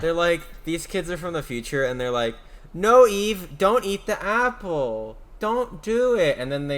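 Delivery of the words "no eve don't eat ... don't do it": put-on pleading kid voice. Kids pleading with Eve.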